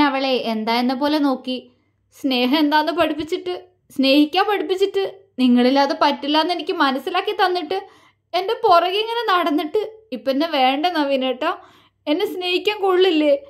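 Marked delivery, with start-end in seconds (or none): 2.2-13.4 rising higher toward a tearful plea; an anguished plea that climbs as it breaks; faltering, breaking voice. Acted. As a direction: pour it out, voice cracking more and more. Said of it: "അവളുടെ സ്വരമിടറി".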